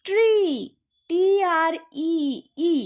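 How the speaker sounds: ট্রি with a stretched "ee"; long E sound. Shown as a demonstration. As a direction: hold the ই of ট্রি like the letter's name. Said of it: "ইর মতোই উচ্চারণ হচ্ছে". (ট্রি-র ই টেনে, নামের মতো)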